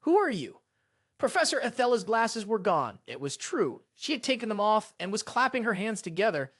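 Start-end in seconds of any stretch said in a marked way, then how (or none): 0.0-0.6 higher, mildly startled shout; a touch of a crowd's panicked shout. A narrator's reading. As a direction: call it out in mild alarm. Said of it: "all gasping and shouting together".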